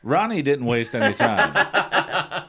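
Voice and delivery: laughing. Real, not acted. Starts reading book aloud, laughing.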